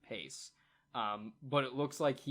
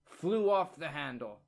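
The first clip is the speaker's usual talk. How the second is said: woman's reply; 4 semitones higher, 5 dB louder than usual. Acted. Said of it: "And she says".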